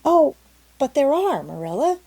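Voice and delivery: put-on girl insisting ghosts are real, eagerly; eager cry. A narrator's reading. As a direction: burst out eagerly in protest. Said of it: "cried Anne eagerly".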